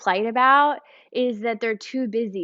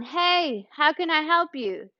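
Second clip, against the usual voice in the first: mock cheery call down; 5 semitones higher, 3 dB quieter than usual. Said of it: "it's not yelling down".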